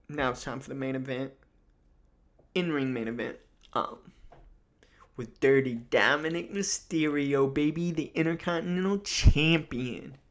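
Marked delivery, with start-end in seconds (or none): 5.4-10.2 louder, rising champion introduction; big, drawn-up title announcement; playful hype announcer. Pretend.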